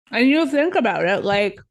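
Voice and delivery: talking around ice; words round a mouthful of ice; mouth full. Real, not acted. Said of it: "sorry, I got ice in my mouth".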